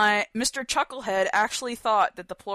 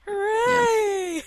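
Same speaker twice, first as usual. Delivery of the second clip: excited; 12 semitones higher, 3 dB louder than usual. Acted. Cheering making it this far.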